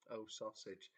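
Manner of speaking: soft dazed blurt. Retold or imitated. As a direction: let it drop out softly, barely awake. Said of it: "I didn't say".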